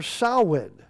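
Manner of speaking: "Samhain" said SOW-in, sow as in cow; correct Gaelic pronunciation. Shown as a demonstration. Preacher teaching the festival's name, "Samhain" pronounced SOW-in. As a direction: say "Samhain" as SOW-win, silent M. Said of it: "with the O W like a cow".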